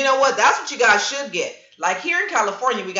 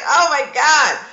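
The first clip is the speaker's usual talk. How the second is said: mock panic; 4 semitones higher, 4 dB louder, slower than usual. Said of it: "I'm like".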